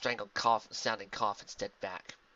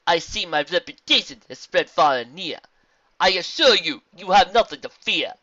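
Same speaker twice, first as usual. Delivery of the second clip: loud, higher formal zebra voice; kindly zebra; 7 semitones higher, 11 dB louder than usual. Acted. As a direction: reassure in measured rhyme. Zebra reassures timid pony.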